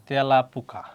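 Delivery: "তেলাপোকা" said carefully with first vowel opened to "ae", tyala-poka; open e sound. Shown as a demonstration. Teacher showing students the rule, open e sound in "তেলাপোকা". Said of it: "উচ্চারণ বিকৃত হয়ে এ হয়".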